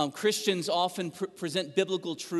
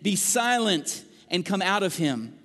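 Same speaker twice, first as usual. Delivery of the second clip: stern rebuke; 2 semitones higher, 4 dB louder than usual. Acted. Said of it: "Jesus rebuked him".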